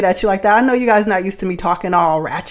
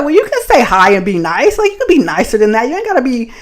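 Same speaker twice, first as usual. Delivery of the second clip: telling him off; 3 semitones higher than usual. Retold or imitated. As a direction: lecture him he got her wrong. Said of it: "I'm just like".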